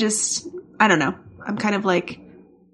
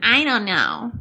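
attempted vocal fry. Shown as a demonstration. Co-host tests whether this is vocal fry, exaggerated delivery. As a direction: try creaking through the words. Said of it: "Is that vocal fry?".

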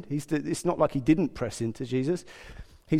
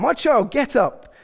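high, drawn-out loud command; 8 semitones higher, 7 dB louder than usual. Acted. Bossy Jesus to the girl, loud command. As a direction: order it slowly, loud and high. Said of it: "Said in a loud voice".

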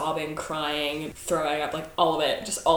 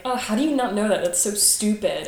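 slightly raised, mildly scornful retort; mocking disbelief; 3 semitones higher, 3 dB louder than usual. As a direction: imitate someone making fun of a newcomer. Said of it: "I would get laughed at".

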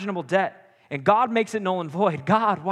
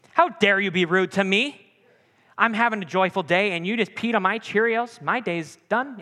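hammed-up indignation, raised pitch; melodramatic, higher-pitched huff; mock outrage; 4 semitones higher, 4 dB louder than usual. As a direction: act mortally offended over a trifle. Acting out overblown offence at rudeness.

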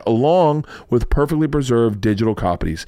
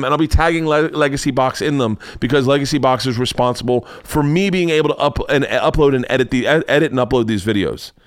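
stuttering. Real, not acted. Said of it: "I'm stuttering a lot today".

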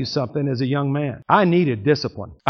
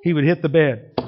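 ordinary delivery

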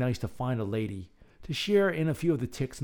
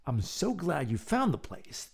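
sparkling warmth; 4 semitones higher than usual. Acted. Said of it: "the old woman sparkled at Mabel".

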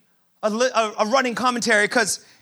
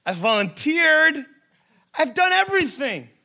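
slightly raised, whiny complaint to God; exasperated pleading believer; 4 semitones higher than usual. Retold or imitated. A frustrated believer complaining to God, lightly whiny and pleading. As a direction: list your efforts like you're owed an answer. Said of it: "It's like".

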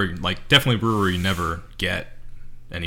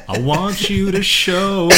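laughing; 11 semitones higher, 6 dB louder, much slower than usual. Acted. Laughing mock come-on.

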